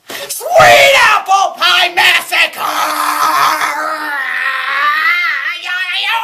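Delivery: slow, loud crying yell of the title; wailing shout. Acted. Critic wailing as she announces the fanfic. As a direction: howl it in anguish.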